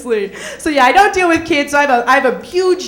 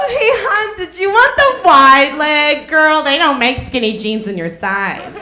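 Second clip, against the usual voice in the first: catty saleswoman; 3 semitones higher, 3 dB louder, slower than usual. Retold or imitated. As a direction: tease the customer in a fake-sweet voice. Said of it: "to go".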